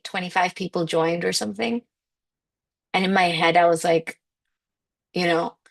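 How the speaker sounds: ordinary talk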